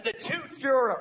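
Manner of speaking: "fairy" said like Führer; mispronounced fairy. Shown as a demonstration. Father correcting his slip, "fairy" sounding like Führer. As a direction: say "fairy" as "fyoo-ruh". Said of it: "not the tooth fairy".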